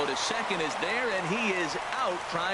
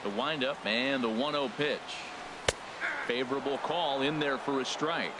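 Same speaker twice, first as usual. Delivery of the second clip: radio baseball announcer. Acted. Play-by-play of the inning.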